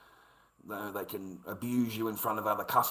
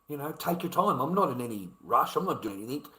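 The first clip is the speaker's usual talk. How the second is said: friendly; 2 semitones higher than usual. Shown as a demonstration. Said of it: "that wasn't just that statement".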